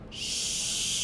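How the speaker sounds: "shoes" with a long hushing start; drawn-out SH. Shown as a demonstration. Teacher modelling a sound for children, "shoes" with long SH. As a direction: stretch the first sound of "shoes". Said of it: "Can you practice that sound".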